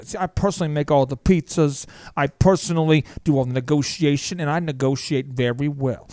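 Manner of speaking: lightly voiced small-town shop owner; a hint of a local pizza guy ad; pizzeria owner ad. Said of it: "that was Bob's Pizzeria".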